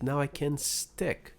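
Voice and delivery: Now I can stick said slowly; slow teacher drill of Now I can stick. Shown as a demonstration. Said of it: "Mais uma vez".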